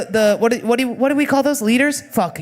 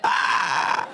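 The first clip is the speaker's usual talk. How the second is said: hawk screech; 6 semitones lower than usual. Pretend. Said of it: "only communicate in hawk".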